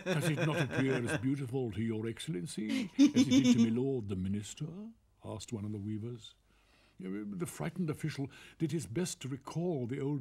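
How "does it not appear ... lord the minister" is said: sly weaver voice. Acted.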